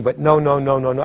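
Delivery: five "no"s, each given full stress; "no" said five times, all stressed. Shown as a demonstration. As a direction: hammer each "no" evenly. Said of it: "I can have five stresses".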